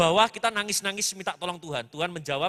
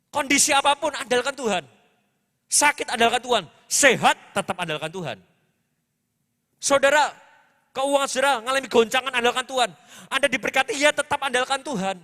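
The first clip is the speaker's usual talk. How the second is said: emphatic preaching; 3 semitones higher, 4 dB louder than usual. Real, not acted. Preaches at full force.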